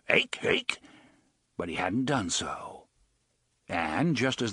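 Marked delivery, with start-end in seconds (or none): 0.1-0.8 a hoarse, breathy creature call; rasped animal yelp of a name; harsh animal cry. Pretend. A pet bumbler calling after its boy, harsh whispered yelp. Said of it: "in his harsh voice".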